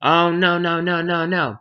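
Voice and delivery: high-pitched wail of repeated no; loud at first, then a run of high protests; mock outrage. Rumpelstiltskin hears his name guessed, mock-outraged wailing. He gets so mad.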